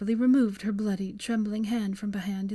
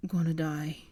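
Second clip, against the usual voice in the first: gasped; 3 semitones lower than usual. Acted. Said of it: "he gasped".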